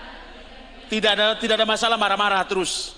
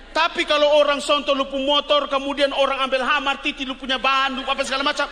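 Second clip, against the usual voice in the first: excited; 6 semitones higher, 5 dB louder than usual. Acted. Vivid escalating example, loud.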